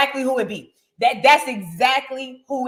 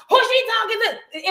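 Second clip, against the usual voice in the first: put-on higher, sassy hood-girl voice; mock hood girl; 8 semitones higher than usual. Mimicking a hood girl crashing a nice trip, sassy. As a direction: mimic a rude girl picking a fight. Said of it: "come in talking about".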